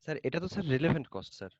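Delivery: speaking up. Real, not acted. Student repeating the answer for the teacher, speaking up. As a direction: repeat it so the teacher can hear. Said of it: "আপনি একটু জোরে বলেন".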